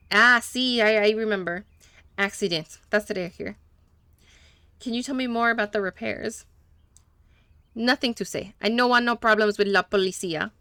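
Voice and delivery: lightly put-on Spanish accent, broken English; a hint of a Spanish-speaking mechanic, eager to please; gentle Spanish accent, a little nervous; mechanic's Spanish accent. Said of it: "that was on purpose that he was talking that way".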